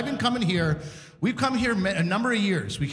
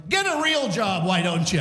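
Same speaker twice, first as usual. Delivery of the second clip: lightly voiced heckle, pitched up then dropping; mock heckler. Young local heckles a security guard, mock heckling. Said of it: "that guy who did the heckling".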